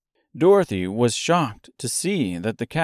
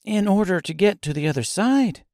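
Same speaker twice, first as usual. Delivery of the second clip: Dorothy's voice; 10 semitones higher than usual. A narrator's reading. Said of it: "said Dorothy".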